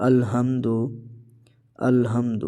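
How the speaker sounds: الحمد with a thick, heavy h; heavy ha, wrong. Shown as a demonstration. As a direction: show the mistake in الحمد. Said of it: "اکثر ہم میں سے اس کو پڑھتے ہیں".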